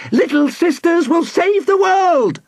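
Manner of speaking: very high, ringing battle cry; heroic girl's yell. A narrator's reading. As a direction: proclaim it as a plucky little heroine. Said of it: "Nina Moot yelled to Professor Elseviera".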